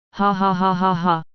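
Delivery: unhinged burst of laughing; wild laughter. A narrator's reading. Gaara laughing wildly at the silent voice in his head. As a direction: laugh like the relief is breaking you. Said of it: "laughed wildly".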